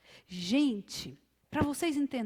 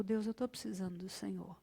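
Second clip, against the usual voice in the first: tearful plea to God. Acted. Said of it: "Quando nós clamamos por socorro".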